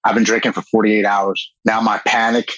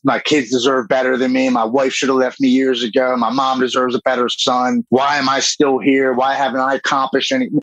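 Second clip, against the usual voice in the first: mildly self-pitying, pitched a little higher; woe-is-me self-pity; 4 semitones higher than usual. Retold or imitated. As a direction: retell your own woe-is-me lament. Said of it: "doing the whole "woe is me".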